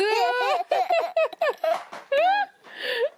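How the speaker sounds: squealing giggle; a high burst of delighted laughter. Real, not acted. Laughing at baby.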